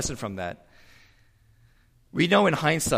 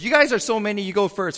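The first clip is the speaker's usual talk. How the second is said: higher, louder, mockingly generous; mock generous; 9 semitones higher, 8 dB louder, faster than usual. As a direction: wave the prophets ahead, pitch up. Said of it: "he goes".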